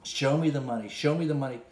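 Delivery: mock yelling. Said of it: "you're yelling".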